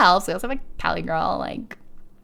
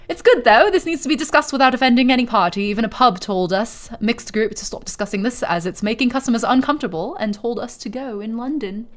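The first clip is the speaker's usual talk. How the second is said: put-on posh British accent; 3 semitones higher than usual. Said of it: "I just saw a posh Brit redeem".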